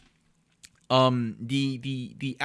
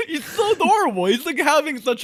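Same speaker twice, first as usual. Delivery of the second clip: laughing fondly; 13 semitones higher, 5 dB louder than usual. Real, not acted. Laughing fondness at the stranger.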